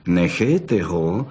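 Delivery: low, slow vixen's growl. Acted. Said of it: "zavrčela bystrouška".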